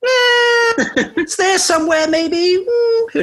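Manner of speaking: high giggly laughing talk. Real, not acted. Player laughing at own vague guess, giggly laugh. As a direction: laugh through the words, voice up high.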